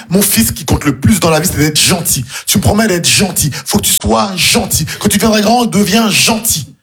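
mère gentille. Retold or imitated. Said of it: "Ma mère est une personne gentille".

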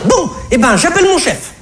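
put-on very high, exasperated shop girl; brazen cashier. Comedian voices the cashier lying brazenly to him, very high. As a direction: snap it back, fed up.

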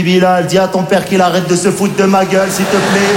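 put-on exasperated outburst at the baby's father; mock angry retort. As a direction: tell the father off, pitch rising at the end. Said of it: "j'ai dit".

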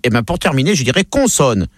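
put-on measured Parisian accent. Parisian making his last choice, Parisian accent. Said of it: "le Parisien, pour finir".

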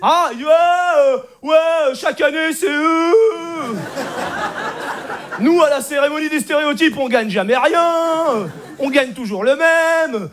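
acted grumbling with stretched line endings; mock heckling. Disgruntled Whites heckle the stereotype awards, mock heckling. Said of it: "Alors dans le public, ça gueule".

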